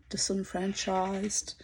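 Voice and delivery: slow whispered aside. Real, not acted. Telling the camera she's been cast out, whispered slowly. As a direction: breathe the word out, unvoiced and slow. Wry aside about being forgotten.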